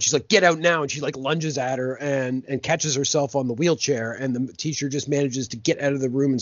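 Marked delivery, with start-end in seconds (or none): 0.3-0.8 louder, higher acted warning; mock-urgent command, raised in pitch and volume; retold urgent order. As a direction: act out ordering someone away.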